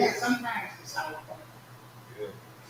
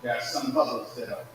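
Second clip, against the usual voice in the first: fervent preaching; 9 dB louder than usual. Real, not acted. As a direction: drive home the mother's prayer, loud. Preaching climax about praying mother.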